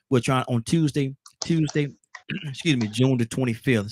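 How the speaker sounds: choked up, clearing the throat. Real, not acted. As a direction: talk through a lump in the throat. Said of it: "She got me choked up".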